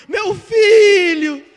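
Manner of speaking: slow, loud, high wailing cry; mother's cry. Acted. Mother screaming for her dead son, slow anguished wail. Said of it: "uma mãe gritava lá dentro".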